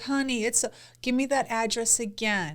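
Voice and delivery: soft, gentle operator impression; soothing operator. Wife plays a Southern emergency operator, soothing. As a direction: soothe the caller. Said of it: "'cause they're soothing".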